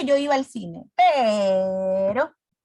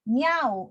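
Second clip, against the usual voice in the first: meow imitation. Shown as a demonstration. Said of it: "los sonidos de los animalitos".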